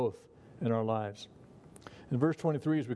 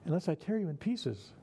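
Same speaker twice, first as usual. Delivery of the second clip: lighter take; 4 semitones higher than usual. Shown as a demonstration. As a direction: say it lightly, as if harmless. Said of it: "just as threatening".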